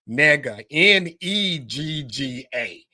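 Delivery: "Negga" said slowly, then spelled out N E G G A letter by letter; explaining the Korean word to viewers, spelling "Negga"; Korean pronunciation. Shown as a demonstration. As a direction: spell out "Negga" as N E G G A, deliberate and slow. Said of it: "in Korea, you pronounce it".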